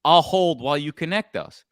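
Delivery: confident, matter-of-fact command; authoritative. Shown as a demonstration. Caller to gatekeeper, calm and authoritative. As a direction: expect to be put through. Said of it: "you speak like an authority".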